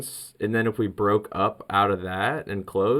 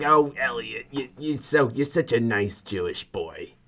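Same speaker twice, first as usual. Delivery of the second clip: lightly voiced doting mother; a hint of a fussy Jewish mom; imitating mom; 3 semitones higher than usual. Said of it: "She's like".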